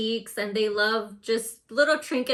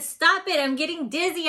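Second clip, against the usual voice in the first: screamed; 6 semitones higher than usual. A narrator's reading. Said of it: "I screamed".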